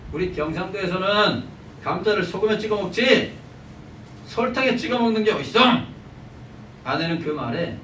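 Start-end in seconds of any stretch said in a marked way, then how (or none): 0.1-5.8 indignant grumble, rising in pitch; 투덜대는 남편. Acted. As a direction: protest like a put-out husband, building to a high finish. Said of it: "남편은 눈살을 찌푸리면서 투덜거렸다고 합니다". (투덜대며 점점 높아지는 항의)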